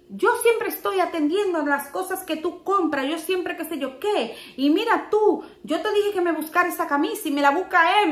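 husband blaming his wife for the wrong shirt, lightly mocked; Jay complaining. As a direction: imitate an aggrieved husband listing complaints. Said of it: "cómo estaba ese hombre".

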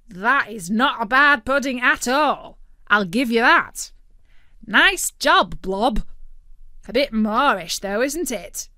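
a smug food critic turkey; Tick-Tock Turkey's voice. A narrator's reading.

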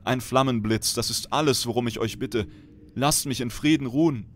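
high, pleading voice of a sick dying woman. Acted. Prisoner woman begs Kel'Thuzad for death, high and pleading. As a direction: beg the lord for a merciful death.

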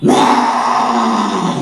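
a loud, drawn-out wailing "Ah"; a boy's mock wail; wailing cry. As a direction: let out the boy's cry of despair. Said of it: "the young man began to cry".

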